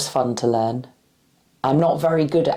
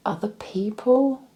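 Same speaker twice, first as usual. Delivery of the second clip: whisper; 8 semitones higher than usual. Shown as a demonstration. As that was an example.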